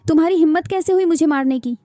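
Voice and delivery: loud, outraged demand after the slap; indignant. Acted. Slapped mother yells at her daughter, loud and outraged. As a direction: hurl it back, stung and furious.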